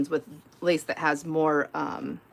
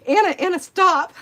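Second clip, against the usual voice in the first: higher, louder, laughing call; 10 semitones higher, 6 dB louder than usual. Retold or imitated. Begging the friend to stop calling, laughing.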